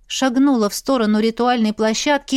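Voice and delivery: ordinary delivery, nothing marked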